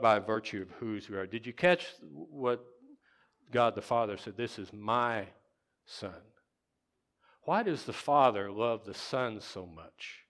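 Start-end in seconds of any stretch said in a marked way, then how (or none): 4.4-6.2 "my" held, then a pause and soft drop; stress on MY. Shown as a demonstration. Preacher quotes God the Father, stressing "my". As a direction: land on "my" and pause before the last word. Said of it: "look at the word "my".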